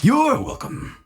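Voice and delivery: very high-pitched robot voice; Sir Bo's machine voice. Acted. Sir Bo answering thanks, high machine voice. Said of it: "stands up to his full height and unstabilizes and says".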